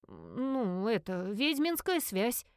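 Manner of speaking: hesitant and very slow; unsure answer. Acted. Anita answers the investigator, hesitant and slow. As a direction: drag it out, unsure of yourself. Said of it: "неуверенно ответила Анита".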